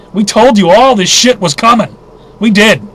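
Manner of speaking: loud, worked-up I-told-you-so; really getting worked up. Real, not acted. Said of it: "I'm sorry I'm getting worked up".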